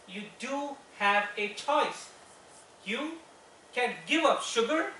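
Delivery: firm wifely encouragement, slow then lifting. Acted. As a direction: urge your husband, pitch lifting on each phrase. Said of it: "you would have heard my wife say something".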